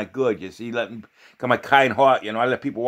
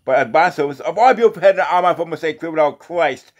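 raised, steady Bible-reading voice; scripture recitation; 2 semitones higher than usual. Real, not acted. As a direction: read it out like a lay preacher. Reads scripture aloud in a preaching recitation.

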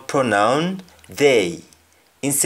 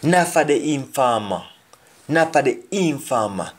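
Jamaican patois, raised a little; patois example for the class; 4 semitones higher than usual. Shown as a demonstration. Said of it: "Many of them are informants".

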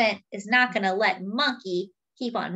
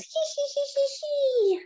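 much higher monkey giggle; mock giggle. Monkey laughing at Fred in a dress, mock giggle. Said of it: "He's laughing".

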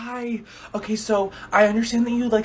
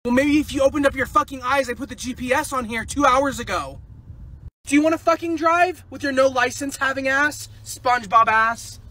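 angry bickering; 5 semitones higher than usual. Acted. Driving quarrel.

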